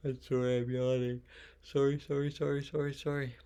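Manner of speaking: high-pitched string of apologies, starting loud; mock flurry of sorries, easing off in volume; playful over-apologizing.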